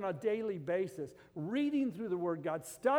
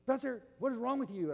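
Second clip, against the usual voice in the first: higher-pitched mock indignation; retold anger; 5 semitones higher than usual. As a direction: act out an upset man confronting his pastor. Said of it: "he was so mad".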